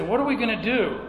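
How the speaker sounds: lightly hammed-up helpless question; imitated worried people. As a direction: imitate people pressing for an answer. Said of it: "People would say".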